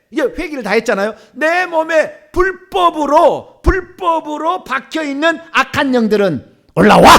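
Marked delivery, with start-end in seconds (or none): 1.3-7.1 loud, drawn-out exorcism command. Shown as a demonstration. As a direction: build slowly to a forceful order. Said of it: "어떻게 명령함을 줄까?".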